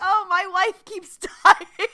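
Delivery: high, loud mock whine breaking into laughter; hammed-up complaint, laughing through it; laughing mock lament. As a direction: wail it jokingly while cracking up. Mock quote while cracking up.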